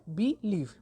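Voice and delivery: believe as two separate syllables, "be" and "lieve"; split into syllables. Shown as a demonstration. Teacher gives a two-syllable example, believe split in two. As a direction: divide believe between be and lieve. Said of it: "two syllable word है".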